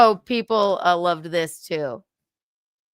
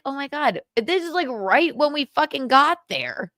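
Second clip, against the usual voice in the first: excited gush; 6 semitones higher than usual. Retold or imitated. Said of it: "I was like".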